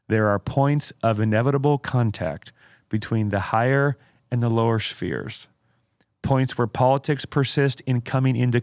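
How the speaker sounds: slow, deliberate oratorical reading; dramatic quote reading. Acted. Host reads Spurgeon's quote to co-host, dramatic oratory. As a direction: read it out with weighty pauses.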